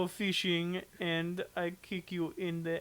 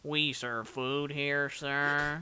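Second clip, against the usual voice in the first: slow, lower droning cartoon voice; Squidward-like voice; 4 semitones lower, much slower than usual. Doing SpongeBob voices, slow low drone.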